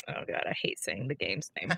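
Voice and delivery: whispered groan of dread, unvoiced; mock whisper. Real, not acted. Host whispering before naming the game, mock dread. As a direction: hush it like a dirty word.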